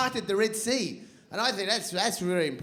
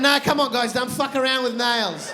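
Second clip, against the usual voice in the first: louder, laughing plea to the lads; Jesus protesting; 3 semitones higher, 5 dB louder than usual. Retold or imitated. Jesus pleading with his mates at the prank, laughing. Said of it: "Now Jesus going".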